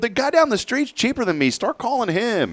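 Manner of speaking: high-pitched comeback, slowing at the end; mock exasperated. IT man sending his complaining client to a rival, mock exasperated. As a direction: imitate yourself sending a client away.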